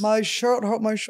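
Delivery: put-on pouty toddler talk; baby voice. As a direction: babyish whine, pouting. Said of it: "we can't be doing baby voice".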